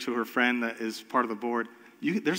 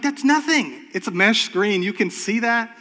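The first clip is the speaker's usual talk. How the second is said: much higher, louder, insistent protest; heated protest; 7 semitones higher, 3 dB louder than usual. Retold or imitated. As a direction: argue the case with rising urgency. Defending the trampoline screen to board.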